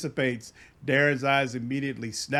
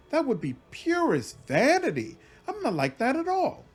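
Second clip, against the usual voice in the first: indignant; 4 semitones higher than usual. Acted. Indignant scholar protests.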